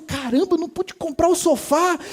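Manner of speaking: annoyed outburst, played for effect; retold anger. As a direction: replay your own frustrated grumbling. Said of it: "Gente, fiquei bravo".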